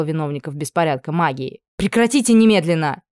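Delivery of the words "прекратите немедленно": louder, higher stern order; stern command. Acted. Anna ordering the servants to stop, loud command. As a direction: stop the brawl with authority.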